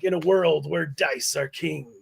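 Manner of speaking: movie trailer voice. Retold or imitated. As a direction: intone it like a blockbuster trailer. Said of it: "it's my movie trailer voice".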